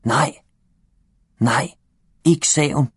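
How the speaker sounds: put-on the boy calls out to stop his dad; shouting no. A narrator's reading. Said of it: "der råber".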